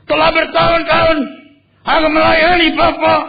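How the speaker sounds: put-on high, loud, bitter complaint of the older son; angry elder son. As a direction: whine it out as the resentful firstborn. Preacher voices angry elder son. (anak sulung yang marah, suara tinggi dan keras)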